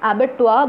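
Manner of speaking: Abattoir ending "-twaa", R silent; correct Abattoir pronunciation. Shown as a demonstration. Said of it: "आर की आवाज़ नहीं आती है".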